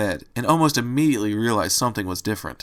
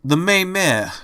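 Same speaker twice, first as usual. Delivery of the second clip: put-on higher, emphatic Italian-accented repeat; repeated loudly; 6 semitones higher, 3 dB louder, slower than usual. A narrator's reading. Angel repeats himself to the confused rabbit, loudly. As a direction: spell it out loudly for the slow listener. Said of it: "Angel repeated loudly".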